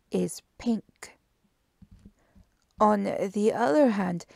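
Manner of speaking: emphatic, deliberate detective laying out evidence; Poirot. Acted. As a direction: punch out each point of the deduction. Poirot explains his deductions.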